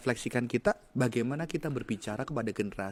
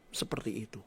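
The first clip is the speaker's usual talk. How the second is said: choked down to a whisper; soft, airless, emotional trailing-off; 6 semitones lower, 10 dB quieter than usual. Real, not acted. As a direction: whisper it, overcome with feeling. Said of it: "Kok gue jadi emosi ya?".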